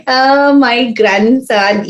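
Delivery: doting grandma. Retold or imitated. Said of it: "And she".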